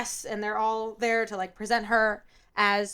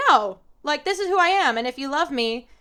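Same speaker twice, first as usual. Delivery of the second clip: higher, louder retold protest; standing up; 3 semitones higher, 4 dB louder than usual. Woman standing up to her fiancé, retold firm protest. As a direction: imitate her firmly standing her ground. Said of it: "she does stand up".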